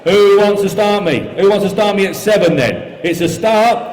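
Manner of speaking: brisk steady auction bid calling; auctioneer calling. Real, not acted. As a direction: rattle off the bids like an auctioneer.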